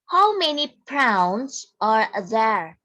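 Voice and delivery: slow, deliberate read-aloud of the question; reading the example. Shown as a demonstration. Teacher reads the example question slowly for the class. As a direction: read it slowly like a model for pupils. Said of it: "this is the example".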